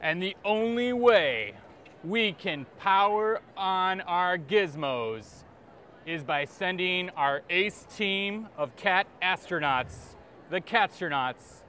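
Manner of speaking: slow, dramatic trailer announcer; movie trailer narration. Acted. Author pitches his cat book, movie trailer voice. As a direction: draw it out like an epic film trailer.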